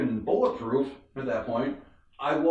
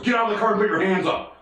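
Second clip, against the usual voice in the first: rapid, higher-pitched officer command; mock police order; 4 semitones higher, much faster than usual. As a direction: imitate a cop's sudden urgent order. Officer suddenly orders him out.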